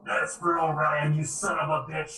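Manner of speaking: half-landed character voice; botched character voice. Acted. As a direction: deliver the battle line in a slightly off voice. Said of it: "That was a voice I messed up".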